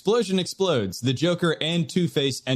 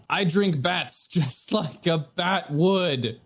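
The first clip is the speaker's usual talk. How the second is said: gravelly Batman voice; slower than usual. Acted. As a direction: do a slow Batman voice.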